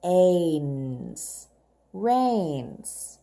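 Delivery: rains, drawn out on the long A; stretched phonics word. Shown as a demonstration. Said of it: "A I also makes the long A sound".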